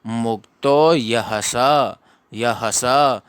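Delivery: मुक्तो drawn out, ह of यह short and light; quick visarga ह. Shown as a demonstration. Teacher modelling the visarga, ह brief before स. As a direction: pass quickly over ह into स. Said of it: "थोड़ा fast पढ़ दिया जाएगा".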